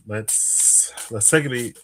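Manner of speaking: slightly winded speech; out of breath. Real, not acted. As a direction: talk a little out of breath. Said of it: "I feel kinda out of breath today".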